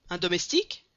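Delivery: exclaimed. Acted. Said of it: "s'écria le barnum".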